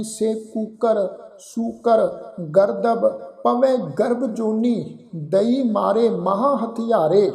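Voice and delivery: very slow, word by word Gurbani recitation, ਦਈ said clearly; slow scripture recitation. Shown as a demonstration. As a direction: stretch each word out as a model reading. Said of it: "ਫਿਰ ਨੌਵੀਂ ਜਗ੍ਹਾ ਅਸੀਂ ਪਾਠ ਉਚਾਰਨ ਕਰਦੇ ਹਾਂ ਜੀ". (ਬਹੁਤ ਹੌਲੀ, ਸ਼ਬਦ-ਸ਼ਬਦ ਪਾਠ)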